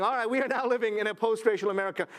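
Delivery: quick, lightly mocked declaration; imitated pronouncement. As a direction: lightly imitate others making a hasty pronouncement. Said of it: "It's white people saying".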